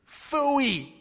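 God's dismissive tone. Pretend. Pastor voicing God brushing off our settling, mock dismissive. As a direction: toss it off like God waving away small dreams. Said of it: "If I say it with that kind of tone".

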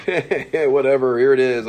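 high, loud, breezy throwaway reading; flippant joking. Shown as a demonstration. Teacher mimics a reader treating scripture as a joke, flippant. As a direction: toss it off as if it's a joke. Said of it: "communicating like it's a joke".

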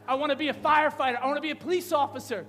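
put-on quick, loud, eager little kid listing dream jobs. Child telling the preacher his dream jobs, eager. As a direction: rattle them off like a keen child.

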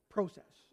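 "Process" said with a long o, Canadian style; Canadian accent process. Shown as a demonstration. Pastor laughing at his own Canadian accent saying "Process". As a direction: repeat "Process" the Canadian way, pro- like "go". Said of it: "Oh, my Canadian accent".

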